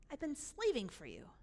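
restrained resentful grievance; contained resentment; held-back complaint. Acted. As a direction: state the grievance without raising your voice. Older brother's complaint, first take.

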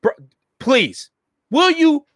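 acted whiny plea, the pompous act dropped; completely changed voice. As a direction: beg them to stop, voice pushed up high. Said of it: "And the voice completely changes".

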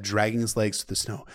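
usual speaking voice

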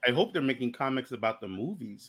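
low, soft growling tiger voice; Tiger Claw voice. Retold or imitated. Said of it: "Should I do my Tiger Claw impression?".

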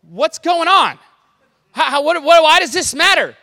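half-mock bewildered asking; confused listener. Crowd member baffled by the story, questioning Jesus. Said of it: "you're thinking to yourself".

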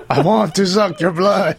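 put-on laughing Transylvanian accent vampire line; Dracula-style Transylvanian accent, half laughing. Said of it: "try his best Transylvanian accent".

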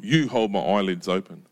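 lightly grumbled complaint to God; a touch of grumpy accusation; mildly grumpy. Acted. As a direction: blame God for the lost sleep, stressing "You". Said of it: "He's having a bit of a grump".

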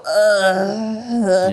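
long, drawn-out groan; mock groan of despair; imitated anguished groan. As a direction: groan as if broken. Echoing the prisoner's broken no.

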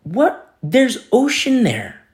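acted-out bewildered sceptic, pitch jumping up; carnal doubter. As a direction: protest in baffled disbelief. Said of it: "Carnally speaking".

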